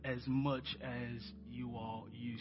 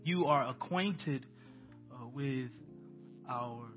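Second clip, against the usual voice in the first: prayer. Acted. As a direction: pray aloud to the congregation, unhurried. Leads the church in prayer.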